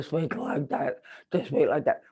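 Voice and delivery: low, slack-faced mumbled speech; dead face muscles. Shown as a demonstration. Coach shows students lifeless face muscles, low slack speech. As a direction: talk with the cheek muscles switched off. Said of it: "these muscles are dead".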